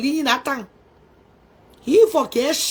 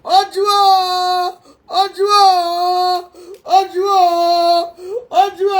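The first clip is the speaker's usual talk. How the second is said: crying; slower than usual. Real, not acted. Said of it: "I feel like crying".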